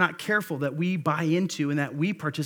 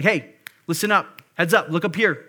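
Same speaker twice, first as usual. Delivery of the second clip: sharp call to attention; 4 dB louder than usual. Acted. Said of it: "sorry if that was a little aggressive".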